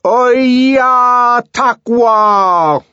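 Zuni curse. Acted. John cursing in Zuni.

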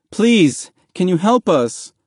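begging. A narrator's reading. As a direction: beg a stranger desperately for help. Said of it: "Mahmoud begged".

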